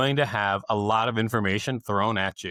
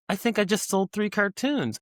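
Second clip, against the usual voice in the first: excited; 10 semitones higher than usual. Retold or imitated. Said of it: "and I was like".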